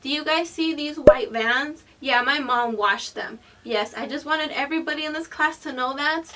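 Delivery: playfully proclaimed to a room; mock class announcement. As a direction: address the whole classroom emphatically.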